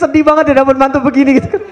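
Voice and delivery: mock sad laughing. Mocking bride's father's sadness.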